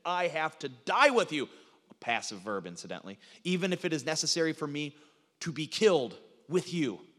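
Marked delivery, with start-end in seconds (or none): 0.1-1.5 mildly emphatic refusal. Retold or imitated. Peter protesting his loyalty to Jesus, emphatic. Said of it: "He says emphatically". 3.4-7.1 mildly emphatic pledge. Retold or imitated. Peter pledging to die with Jesus, emphatic. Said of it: "He says emphatically".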